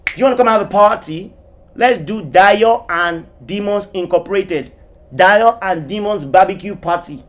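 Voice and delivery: a half-serious shouted invitation; mock shout. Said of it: "I am shouting".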